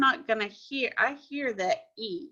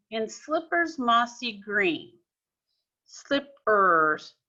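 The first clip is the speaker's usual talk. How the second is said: slow reading; slower than usual. Shown as a demonstration. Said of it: "let's look in line two".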